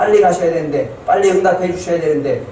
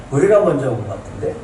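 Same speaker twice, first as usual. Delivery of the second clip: a chuckle, then 우리가 rising in disbelief; bemused laugh. Shown as a demonstration. Preacher mocking their bafflement at being skipped, amused rising tone. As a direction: laugh it off as a puzzled question.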